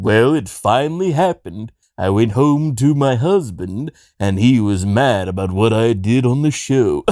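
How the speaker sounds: deliberate, mannered celebrity impression; George Takei. George confessing the next day, mannered impression. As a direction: lightly imitate a measured, theatrical storyteller. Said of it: "George came in the next day and said".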